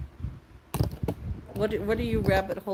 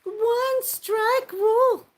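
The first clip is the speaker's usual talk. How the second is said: drawn-out proclamation; 13 semitones higher, 7 dB louder, much slower than usual. Pretend. Repeated emphatic rule.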